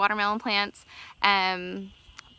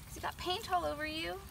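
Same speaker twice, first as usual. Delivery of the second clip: squeaky praising a dog; 9 semitones higher, 10 dB quieter than usual. Acted. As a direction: coo at the dog like a baby. Soothing the dog with water.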